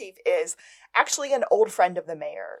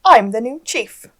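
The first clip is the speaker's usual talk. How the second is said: louder proud declaration; triumphant announcement; 4 semitones higher, 10 dB louder than usual. Retold or imitated. Chief telling the room she got the job, triumphant. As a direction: announce the win. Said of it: "she just goes".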